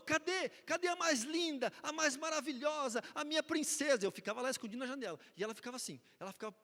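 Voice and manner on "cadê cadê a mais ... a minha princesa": put-on high, loud baby-talk dad voice; silly dad voice. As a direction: coo like a doting father. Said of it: "eu falava de novo".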